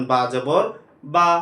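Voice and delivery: "বা জবর বা" with the last বা said short and quick, not drawn out; quick short vowel. Shown as a demonstration. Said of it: "টানা যাবে না". ("বা জবর বা" এর বা ছোট করে তাড়াতাড়ি)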